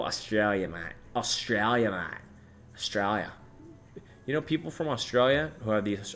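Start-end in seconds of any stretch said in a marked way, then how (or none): 0.0-3.3 lightly put-on Australian accent. Streamer greeting Australian viewers in mock Australian accent. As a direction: say it like an Aussie greeting a mate. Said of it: "Australian accent".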